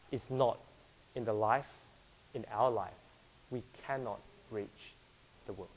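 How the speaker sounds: normal talking voice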